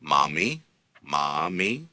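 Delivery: Mami with stress on the first syllable ma; stress demo. Shown as a demonstration. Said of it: "stress there".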